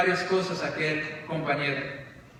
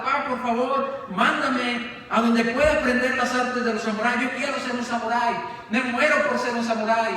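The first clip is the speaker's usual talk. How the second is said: higher, pleading and eager; excited boy pleading with his father; eager begging son; 4 semitones higher than usual. Acted. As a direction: beg your father like an impatient teen.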